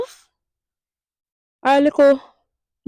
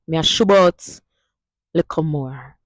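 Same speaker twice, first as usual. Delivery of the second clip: Jamaican Patois sentence. Shown as a demonstration. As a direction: demo line in Jamaican Patois. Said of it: "All right?".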